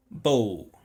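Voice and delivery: "Bow" ending in a clear U vowel. Shown as a demonstration. Teacher shows students that W is a vowel sound, W as U vowel. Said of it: "O som de U".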